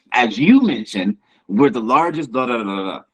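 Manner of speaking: measured politician, stressing YOU in "As you mentioned"; modest, measured imitation of a politician; not arrogant. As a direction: say it like a tactful politician. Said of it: "a way to not seem arrogant".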